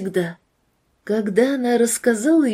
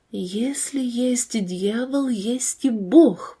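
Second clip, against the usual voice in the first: slow, hushed whisper; drawn-out, half-whispered words; slower than usual. Acted. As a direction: whisper it slowly, as a dawning realisation. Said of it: "прошептала девушка".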